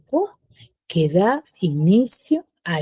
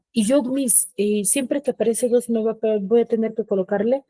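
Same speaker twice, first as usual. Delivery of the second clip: higher, lightly voiced student; a hint of a questioning pupil; student asking the teacher; 5 semitones higher than usual. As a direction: put a pupil's query in a raised pitch.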